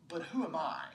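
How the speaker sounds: low, hushed self-doubt; insecure. Acted. Moses doubting himself before God, insecure and hushed. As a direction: drop away into an unsure, half-whispered question. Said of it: "Can you hear the insecurity in Moses' voice?".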